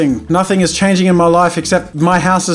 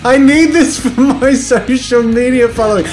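raised, loud goading; mock mean yelling; 5 semitones higher, 3 dB louder than usual. Gamer chases a stranger for a social media fight, mock yelling. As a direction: yell after someone to pick a fight. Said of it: "be mean and yell at you".

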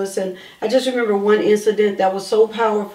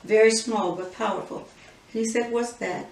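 quiet and slow; 7 dB quieter, slower than usual. Retold or imitated. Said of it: "I said".

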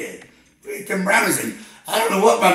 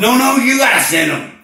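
shouted, higher insistence; frantic shout; 5 semitones higher, 4 dB louder than usual. Acted. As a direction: yell it desperately at the operator. Frantic caller demanding fire department.

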